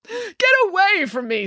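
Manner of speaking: high, repelled exclamation; angry rejection. A narrator's reading. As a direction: drive someone away in disgust. Narcissus repels the nymph.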